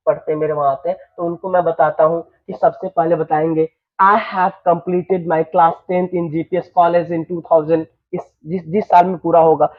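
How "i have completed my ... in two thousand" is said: teacher dictates an education answer to students, slowly; slow model sentence. Shown as a demonstration. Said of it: "teacher models education sentence".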